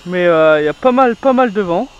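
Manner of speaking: gusty wind noise over the voice; talking outdoors with wind hitting the mic. Real, not acted. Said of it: "si vous entendez le vent".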